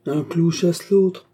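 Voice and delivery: very slow, musing proverb; drawn out like a sage truth; small man musing philosophically, very slow; philosophical murmur. A narrator's reading. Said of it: "murmura philosophiquement".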